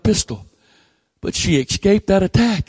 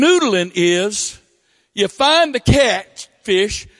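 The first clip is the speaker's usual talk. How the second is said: higher, slower, building to a squeal on "pull him up"; rising incredulity; 7 semitones higher, slower than usual. Real, not acted. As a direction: paint it as crazier and crazier. Describing catfish noodling incredulously.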